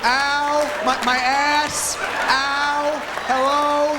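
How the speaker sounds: high whimpering ows, a dog hurting; pained dog voice. Acted. Comic voicing a hurt dog, high pained yelps. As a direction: play the hurt little dog yelping. Dog's pain voiced, far timbre.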